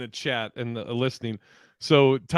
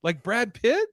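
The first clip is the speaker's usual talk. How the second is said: retold guess; 8 semitones higher, slower than usual. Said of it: "he was like".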